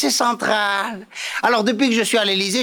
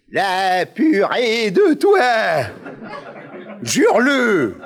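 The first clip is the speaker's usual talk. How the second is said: put-on De Gaulle with pied-noir accent; slower than usual. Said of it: "ils ont tous l'accent pied noir".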